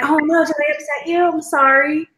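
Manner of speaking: lightly acted gullible concern; retold worried apology. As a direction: apologize as if taken in completely. Retelling own worried apology to Joe.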